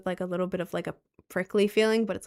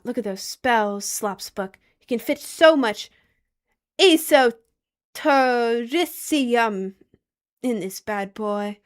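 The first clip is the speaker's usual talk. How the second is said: put-on British accent; 2 semitones higher, 5 dB louder, slower than usual. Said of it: "I had to say it in a British accent".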